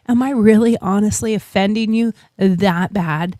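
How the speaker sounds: retold calm, measured question. Shopper asking an offended stranger, calmed down. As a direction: settle down and ask it evenly. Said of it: "and I calmed down".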